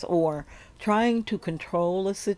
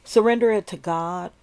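sleep story narrator. Acted. Leads a surrender meditation.

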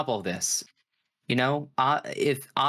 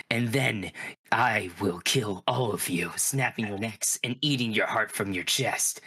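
deep guttural monster; 2 semitones lower than usual. Acted. Monster vows revenge on the players as it fades, guttural growl. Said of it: "this is gonna wreck my throat".

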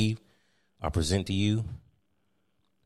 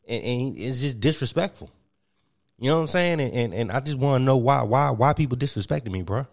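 a hint of a wounded ex-player; aggrieved, stammering complaint; Kwame Brown. Kwame Brown airing feeling disrespected to Steve, lightly voiced. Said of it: "I present to you Mister Kwame Brown".

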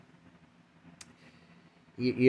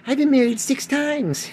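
mock slow confession; 11 semitones higher, 5 dB louder than usual. Imagined voice of the married person.

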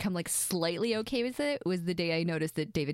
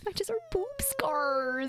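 whisper; 12 semitones higher, much slower than usual. Real, not acted. Wry aside.

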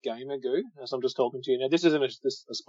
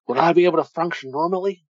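Terry Funk impression; 4 semitones higher than usual. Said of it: "Let's hear your Terry Funk".

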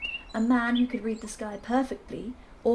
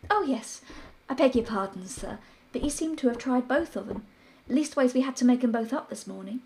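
a deferential maid, pitched up; maid's voice; 3 semitones higher than usual. Acted.

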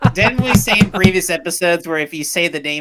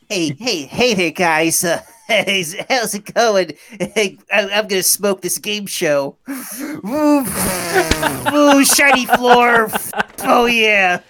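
lightly put-on celebrity voice, rising higher; Seth McJordan impression; 3 semitones higher, slower than usual. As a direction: start casual, build into drawn-out excited oohs. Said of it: "Okay, Seth McJordan. Got it".

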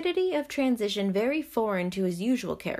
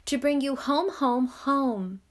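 put-on higher, excited child voice; gleeful little girl; 4 semitones higher, slower than usual. A narrator's reading. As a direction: ring out each repeat with a child's delight. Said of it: "clapping her tiny hands and bending down to laugh".

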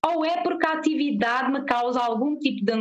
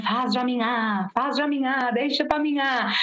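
ghost voice. Retold or imitated. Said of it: "com voz de fantasma".

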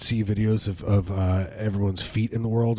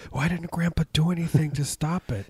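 grandchild voice; 7 semitones higher than usual. Retold or imitated. Imitating grandchildren.

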